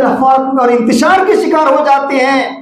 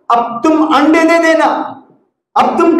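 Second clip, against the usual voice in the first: higher-pitched, insistent order; mildly acted bossy instruction, voice raised in pitch; acted command; 4 semitones higher than usual. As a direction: play the owner laying down orders. Owner makes a new demand.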